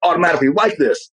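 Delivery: high, wide-eyed gush; mock awe. Host imitating people amazed by a strong person, mock awe. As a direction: gush at someone else's power. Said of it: "It's like".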